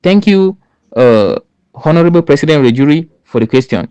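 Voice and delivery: courteous opening, the thank you lifted high; polite thanks. Shown as a demonstration. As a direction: open by politely thanking the jury. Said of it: "You can say".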